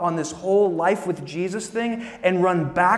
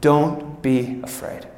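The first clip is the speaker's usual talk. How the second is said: gentle reassurance; 3 semitones lower, much slower than usual. Shown as a demonstration. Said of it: "I love this".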